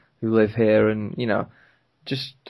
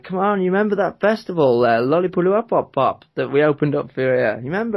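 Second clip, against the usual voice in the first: higher, animated retold prodding; playful mock persuading; retold insistent coaxing; 4 semitones higher, 3 dB louder than usual. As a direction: coax him as if jogging his memory. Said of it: "he was like".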